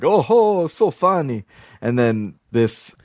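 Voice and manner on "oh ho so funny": mocking general. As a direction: sneer it with fake amusement. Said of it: "and he's like".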